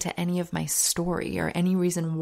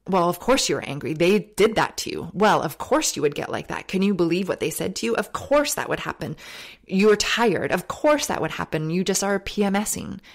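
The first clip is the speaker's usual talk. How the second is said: louder, quick, sympathetic self-talk; indulgent self-excusing; 4 dB louder than usual. Retold or imitated. Justifying her own anger to herself, indulgent and quick. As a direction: excuse yourself like an indulgent friend. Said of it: "the other J is justification".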